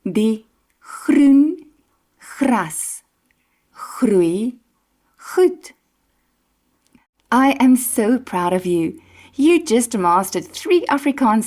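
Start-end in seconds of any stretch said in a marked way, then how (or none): 0.0-5.7 throaty G on groen, gras, groei, goed; tongue twister demo. Shown as a demonstration. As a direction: roll the G sounds through the twister. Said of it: "say that after me".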